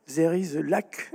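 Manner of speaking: put-on en anglais avec un accent français; English accent. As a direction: citant la chercheuse en anglais, lentement. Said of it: "excusez-moi mon accent anglais". (citation en anglais, accent français)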